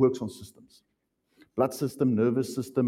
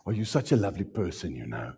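mock sweet; 8 semitones lower, 6 dB quieter, faster than usual. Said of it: "What does rebuke mean?".

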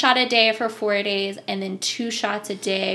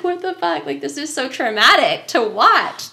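raised-pitch mock disbelief; exasperated retold protest; appalled sister; 5 semitones higher, 5 dB louder than usual. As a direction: imitate an appalled onlooker scolding.

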